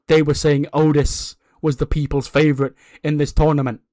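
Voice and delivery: lightly voiced wrestler's promo, emphatic and self-assured; a hint of a cocky champion working the mic; boastful wrestling champion. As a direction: address the crowd in measured, punchy phrases. Plays champion's in-ring promo.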